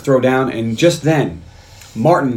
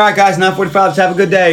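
higher-pitched morning call to the team; mock cheerful rallying; 5 semitones higher, 3 dB louder than usual. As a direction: imitate a colleague rallying the office. Acting out chipper morning greeting.

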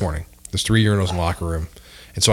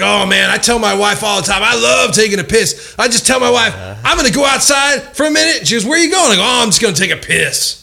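high, mock-thrilled storytelling; imitating gushing stranger; 12 semitones higher, 3 dB louder than usual. Retelling a stranger bragging about his habit, high gushing imitation. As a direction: play an overexcited oversharer, pitched way up.

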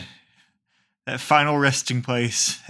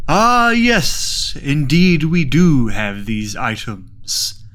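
hammy seance host; 4 dB louder, much slower than usual. Acted. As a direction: play the grand medium.

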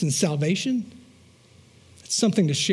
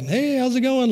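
lightly acted, higher-pitched hello; high, easy neighborly greeting; casual greeting; 6 semitones higher than usual. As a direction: hail a stranger casually, pitched up. Friendly greeting to approaching stranger.

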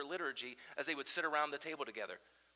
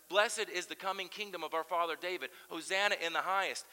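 crowd yelling; 2 semitones higher, 4 dB louder than usual. Retold or imitated. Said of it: "another group of people who are yelling".

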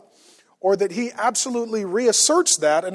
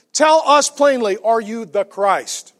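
pressing demand; 3 semitones higher, 5 dB louder, slower than usual. Acted. Crowd presses Jesus for answer.

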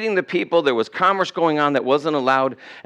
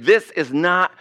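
slow, higher-pitched exasperation; frustrated; 4 semitones higher, slower than usual. Acted. High priest as his case falls apart, frustrated. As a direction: voice mounting frustration, dragging out the words. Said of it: "The high priest is getting very frustrated".

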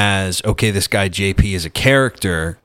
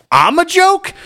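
much higher, louder incredulous yell; retold outburst turning the insult back on Anthony; mock indignant shout; 5 dB louder than usual. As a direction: throw the words back at him, scandalised. Retorting angrily to Anthony.

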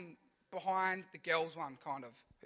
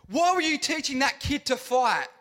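scolding teacher; 5 semitones higher, 6 dB louder than usual. Retold or imitated. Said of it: "she's like".

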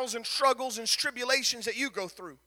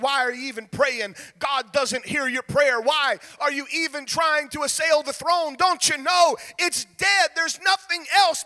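taunting enemy. Acted. Enemy whispering doubts.

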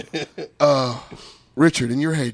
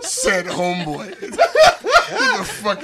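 Amos voice; 8 semitones higher, 5 dB louder than usual. Retold or imitated. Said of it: "the Amos voice".

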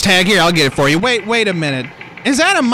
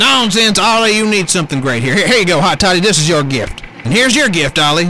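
loud blustering Trump voice; Trump impression; 5 dB louder than usual. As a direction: boom it out like Trump. Trump voice continues.

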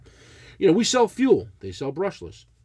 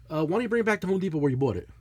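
offhand brush-off; much faster than usual. Retold or imitated. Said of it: "Just like that, he said to me".

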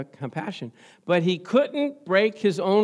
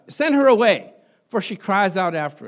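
disciples urging; 5 dB louder than usual. Acted. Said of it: "he says".

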